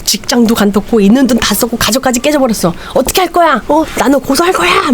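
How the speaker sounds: rising heated accusation, climbing to a high yell; patient yelling at the doctor; angry ranting. Retold or imitated. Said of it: "막 소리 지르니까".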